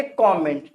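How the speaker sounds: कमेंट said KAW-ment, open first vowel; model pronunciation. Shown as a demonstration. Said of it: "इसे क्या पढ़ेंगे?". (कमेंट को "कॉमेंट" बोलें)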